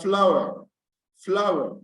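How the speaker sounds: FLOWER with the stress on FLOW; stress on first syllable. Shown as a demonstration. Teacher giving students examples of nouns, first-syllable stress. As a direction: lean on the start of flower, let the ending drop. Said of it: "stress is placed on the first syllable".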